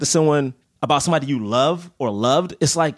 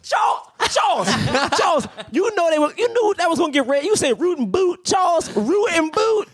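high-pitched, incredulous scolding; mock outrage; 9 semitones higher than usual. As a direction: call him out, appalled but laughing. Mock outrage at caller's phrase.

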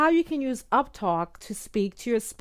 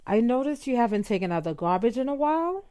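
uptalk. Shown as a demonstration. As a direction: say it gently, tilting up like a question. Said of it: "Let me say it again".

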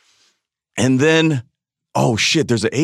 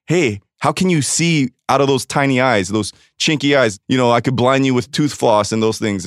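rising, impassioned outburst; heated rant. Real, not acted. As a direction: pour out the hurt, voice climbing. Impassioned rant about racism.

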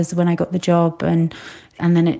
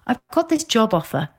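higher-pitched retelling of big news; excited news; 4 semitones higher than usual. Retold or imitated. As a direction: quote her announcing the news, pitched up.

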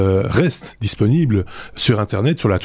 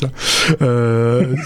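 ordinary delivery

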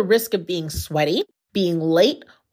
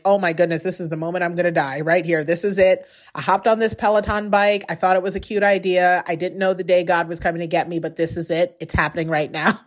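mock dramatic dread; 3 semitones lower than usual. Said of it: "felt like".

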